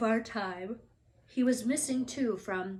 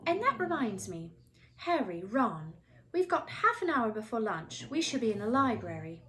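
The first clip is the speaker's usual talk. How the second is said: bossy schoolgirl voice; 4 dB louder than usual. Acted. Hermione voiced in story.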